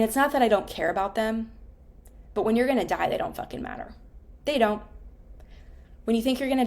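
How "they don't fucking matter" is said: hushed intensity. Real, not acted. Emphatic point about dying.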